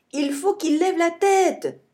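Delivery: high urgent call from the tree; shouting. A narrator's reading. Billy shouts from the tree, high urgent yell. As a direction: yell the order down. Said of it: "crie Billy".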